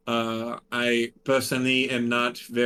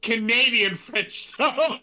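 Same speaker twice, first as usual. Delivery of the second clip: put-on higher, louder French-accented worry; hammed-up French accent with rising pitch; 12 semitones higher, 4 dB louder than usual. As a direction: push the French accent, fretting. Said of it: "my French accent".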